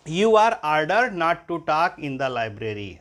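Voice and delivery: very slow, word by word; deliberate teacher dictation. Shown as a demonstration. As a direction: spell it out slowly for students to copy. Teacher dictates passive sentence.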